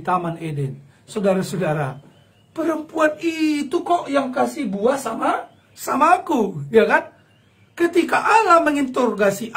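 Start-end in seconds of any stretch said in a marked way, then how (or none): 2.5-7.1 mock Adam shifting blame; Adam blaming. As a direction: point the finger, complaining. Adam blaming Eve, acted.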